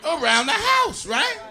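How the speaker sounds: hammed-up indignant shout; emphatic rant. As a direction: push the point hard and slowly. Ranting about housewife duties.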